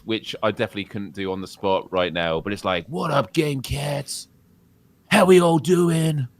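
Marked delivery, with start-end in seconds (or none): 2.9-6.3 Acted. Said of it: "it's like generic American accent".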